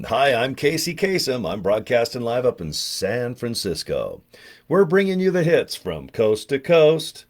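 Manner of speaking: lightly voiced radio host, upbeat; Casey Kasem impression. Radio host announcing live from San Francisco, smooth and bright. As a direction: play the smooth countdown DJ. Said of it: "listening to American Top forty".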